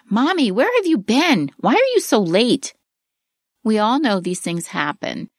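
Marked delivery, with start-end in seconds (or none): 0.1-2.7 higher, lightly voiced upset child calling out. Daughter left waiting at practice calls to her mother, higher and pleading. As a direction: play the kid asking why mom is late. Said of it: "she yells at you".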